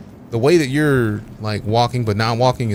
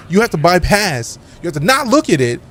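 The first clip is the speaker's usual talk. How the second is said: exasperated; 4 semitones higher, 3 dB louder than usual. Real, not acted. Exasperated at viewers missing the name.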